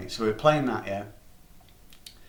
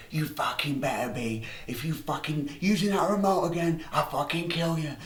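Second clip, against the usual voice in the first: threatening mum; 5 semitones higher than usual. Retold or imitated. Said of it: "she's like".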